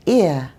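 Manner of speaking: British ear, no R; British non-rhotic ear. Shown as a demonstration. British wife shows her accent, R dropped at end. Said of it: "we sometimes drop the R sound".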